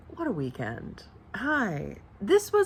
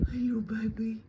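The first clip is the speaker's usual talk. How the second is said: whispering; 4 dB quieter than usual. Real, not acted. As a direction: whisper it tenderly. Greeting her pet.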